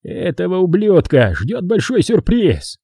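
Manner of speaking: drawn-out grim threat. A narrator's reading. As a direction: promise it slowly and grimly. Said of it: "с мрачным видом кивнул Джайлс".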